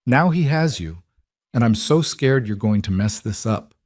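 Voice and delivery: breaking, scared voice. Acted. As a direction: let the voice crack. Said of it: "her voice broke".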